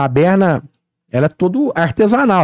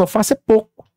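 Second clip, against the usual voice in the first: usual speaking voice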